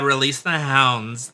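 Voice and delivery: slow mock order, no German accent. Co-host redoing Trudeau's order to police, slow mock command. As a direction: give the order slowly in your own accent. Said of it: "Sorry, and be more like".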